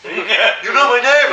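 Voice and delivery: high, loud, drawn-out disbelief; laughing mock astonishment; amazed fan.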